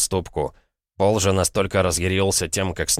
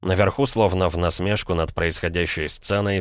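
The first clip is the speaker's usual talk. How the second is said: ordinary delivery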